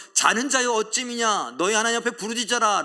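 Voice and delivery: high, loud urgent shout; captain's rebuke. Retold or imitated. The ship captain rouses Jonah, loud and urgent. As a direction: wake the sleeper sharply. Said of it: "라고 말합니다".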